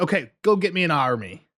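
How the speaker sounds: put-on lightly pirate-accented order; weird pirate-like delivery. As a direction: slip into a slight pirate accent. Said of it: "I said that so weird".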